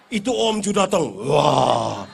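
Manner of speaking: put-on loud crying child voice; mock child wail. A scared child crying loudly at the uncle. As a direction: wail like a frightened kid.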